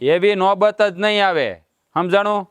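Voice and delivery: slow, with જ leaned on firmly; slow firm promise. Acted. Husband promising his wife slowly and firmly. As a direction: spell out each word to settle it.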